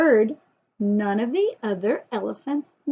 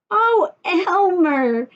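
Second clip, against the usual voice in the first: slow drawn-out gasp, a little higher; 5 semitones higher, 4 dB louder, much slower than usual. Acted. Old elephant seeing Elmer's patches return, slow gasp. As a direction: gasp his name in delight. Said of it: "gasped an old elephant".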